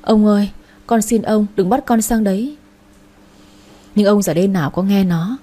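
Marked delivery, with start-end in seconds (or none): 0.0-2.6 a mild, slightly raised wail; understated desperate cry, not a full scream. Acted. Servant girl on the ground pleading with the master, mild wail. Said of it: "Nó dập đầu xuống đất gào lên".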